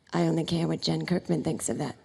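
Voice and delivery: low-pitched deadpan impression of a singer. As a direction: drop well down into the star's voice. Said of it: "And he'd go".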